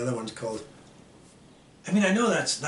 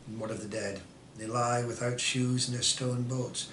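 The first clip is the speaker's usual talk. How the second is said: subdued poem recitation; 2 semitones lower, 3 dB quieter than usual. Acted. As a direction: let phrase endings sink quietly.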